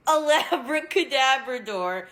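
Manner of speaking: laughing punchline. Real, not acted. Shouted joke punchline laughing.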